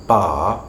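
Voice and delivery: "bar" with a long vowel and silent R; British "bar", no R heard; non-rhotic R. Shown as a demonstration. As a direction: say "bar" slowly, dropping the final R. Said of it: "we don't pronounce that R".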